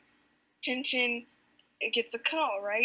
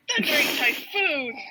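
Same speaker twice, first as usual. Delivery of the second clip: hammed-up captain's outburst, pitched up; exclaiming; 4 semitones higher, 4 dB louder than usual. Captain reacting to the ship, hammed-up exclamation. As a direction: punch it out as a mock oath.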